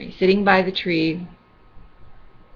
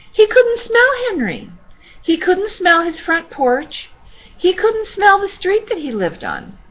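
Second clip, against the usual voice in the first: gentle sad storybook reading; sweet old lady; 2 semitones higher than usual. Acted.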